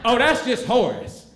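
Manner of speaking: laughing, offhand dismissal; dismissive. Retold or imitated. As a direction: brush him off in front of everyone. Tracy dismissing him after unmasking.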